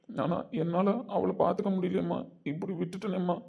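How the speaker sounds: tearful pleading, voice pushed up; crying. Acted. Son weeps to his mother about his missing wife, tearful. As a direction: break down while telling mother. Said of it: "அஸ்வின், அழாதடா".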